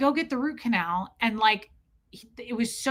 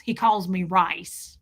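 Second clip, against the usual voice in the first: slow, thick drawl imitation; stepdad's thick accent; 3 semitones lower, slower than usual. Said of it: "he's hard to understand. It's so thick".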